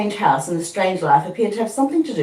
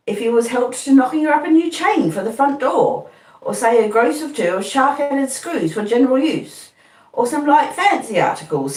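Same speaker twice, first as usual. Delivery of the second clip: higher, earnest Joe rambling through his list; simple blacksmith Joe piling up ideas; Joe's voice; 7 semitones higher than usual. A narrator's reading. Joe listing presents.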